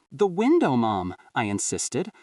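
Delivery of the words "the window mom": voice cracking. Acted. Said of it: "my voice cracking".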